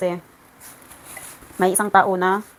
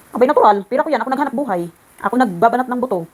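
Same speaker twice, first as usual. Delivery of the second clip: indignant outburst; 3 semitones higher, 4 dB louder than usual. Real, not acted. Indignant outburst about her money.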